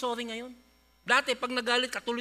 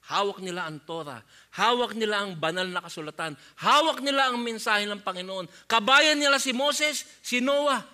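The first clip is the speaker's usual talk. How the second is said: building emphasis; 3 semitones lower, 6 dB louder than usual. Real, not acted. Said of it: "building repeated hawak".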